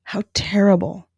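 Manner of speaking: whispered sympathy, retold; hushed whisper. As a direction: breathe it like a stunned friend. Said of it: "and I was like".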